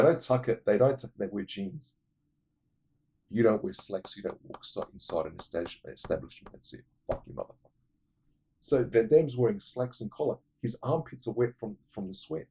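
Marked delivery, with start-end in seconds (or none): 4.9-7.7 under the breath, almost whispered; muttered curse. Real, not acted. Grumbling about people in church, muttered curse. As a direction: grumble the insult to yourself. Muttered aside at sloppy dressers.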